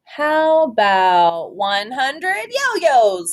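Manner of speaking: put-on a kid brother offering an idea; Tom's suggestion. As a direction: pitch it as an eager little brother. Brother Tom suggests, voiced.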